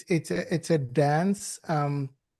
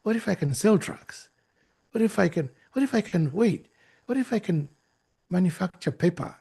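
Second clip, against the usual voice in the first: curious wondering; faster than usual. Acted. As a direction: wonder aloud as ideas occur to you. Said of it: "it sounds like a curiosity".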